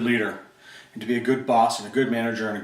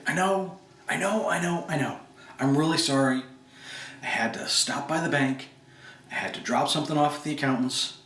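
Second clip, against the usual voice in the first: apologetic Bob. Acted. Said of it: "some role play".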